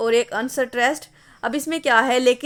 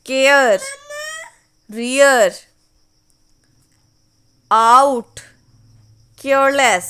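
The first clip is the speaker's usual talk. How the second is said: each stressed word read out alone, slow and loud; stressed syllables read aloud; 5 dB louder, much slower than usual. Shown as a demonstration. Teacher calling out the stressed words of the stanza to students, slow and loud. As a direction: call out every stressed word of the verse, slowly and loudly. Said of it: "second line पे आ जाएं".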